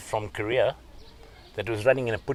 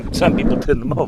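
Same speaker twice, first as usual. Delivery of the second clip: said louder and punchier; loud emphatic; 4 semitones higher, 7 dB louder than usual. Shown as a demonstration. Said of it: "Some people turns it off".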